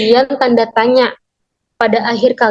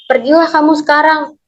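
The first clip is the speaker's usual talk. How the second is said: "Pergilah kamu sekarang" held on a raised pitch; command intonation; 4 semitones higher than usual. Shown as a demonstration. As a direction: give a high-pitched demonstration order. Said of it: "memiliki intonasi untuk memerintah sehingga memiliki nada suara yang naik". (intonasi memerintah, nada suara naik)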